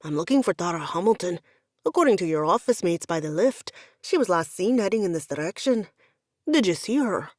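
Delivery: lightly voiced Scots, brisk and official; a touch of stern Scottish authority; Scottish officer asking; commanding Highland brogue. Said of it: "low and commanding, with a ridiculously thick Highland brogue".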